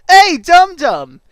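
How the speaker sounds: loud, high, drawn-out call; slow, booming call. Acted. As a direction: holler it like a taunting nickname. Calling out to game character.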